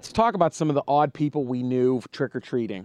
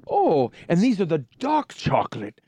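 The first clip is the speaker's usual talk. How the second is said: put-on old gentleman voice; 4 semitones higher than usual. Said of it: "he's like".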